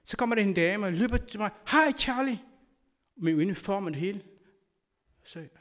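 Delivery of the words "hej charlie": high, eager hello to Charlie; mother's surprised cheerful hi; excited greeting. Retold or imitated. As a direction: call out happily across the airport. Mother greets him in airport.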